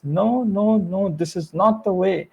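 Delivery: mild stern reprimand, spaced out for effect; Miss Selby. Acted. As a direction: scold with measured, weighty disappointment. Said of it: "attitude as Miss Selby says".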